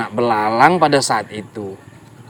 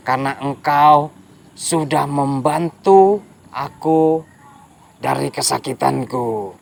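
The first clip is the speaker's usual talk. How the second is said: relieved crocodile. Acted. Crocodile makes a promise.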